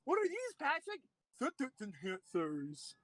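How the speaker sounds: squeaky SpongeBob quote, then drawn out. Retold or imitated. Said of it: "As SpongeBob said".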